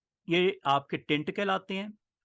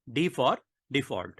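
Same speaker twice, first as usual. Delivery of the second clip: slow, spaced repetition; much slower than usual. Shown as a demonstration. Teacher repeating the key shortcut to students, slowly spaced. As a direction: pause between for and default.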